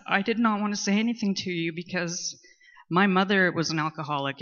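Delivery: tearful. Real, not acted. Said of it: "now I'm gonna start crying".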